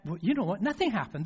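usual speaking voice

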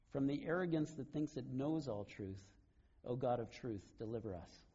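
slow, solemn read prayer; solemn slow prayer recitation. Acted. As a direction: read it slowly like a litany. Reads a written prayer aloud.

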